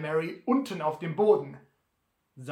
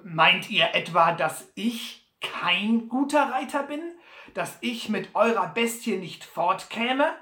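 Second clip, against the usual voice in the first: lauter, gekränkter Butler; Butler fragt rasch; 4 semitones higher, 5 dB louder than usual. Acted. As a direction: schnell und beleidigt nachhaken. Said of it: "rasch fragte". (Butler fragt Sam gekränkt und laut)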